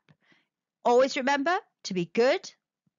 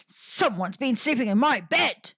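grunting Father Bear; 2 semitones lower than usual. Acted. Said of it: "grunted Father Bear".

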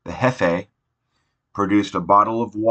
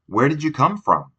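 lightly voiced caretaker, higher; a hint of a surprised grown-up; caretaker's question; 7 semitones higher than usual. A narrator's reading. Caretaker finding a stray child, surprised question.

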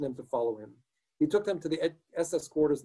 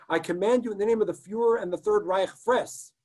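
higher, louder ordering voice; roaring command; 5 semitones higher, 3 dB louder than usual. Acted. SS man roaring the order to eat at Schneeweiss. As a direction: bellow the command in the name of the Reich. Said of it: "roared the taller of the two".

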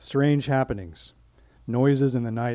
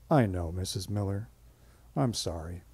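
soothing; 4 semitones lower than usual. Retold or imitated. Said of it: "I would diffuse them like this".

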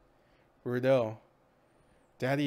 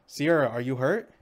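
alarmed call; 7 dB louder than usual. Acted. Blood on her hands, alarm.

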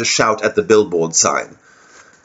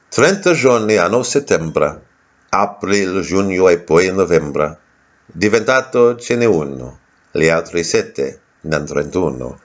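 Italian poem recital; 2 semitones lower than usual. Shown as a demonstration. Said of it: "I'll do a little poem for you".

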